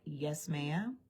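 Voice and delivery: mock cowed reporter; meek yes ma'am. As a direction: shrink as you answer.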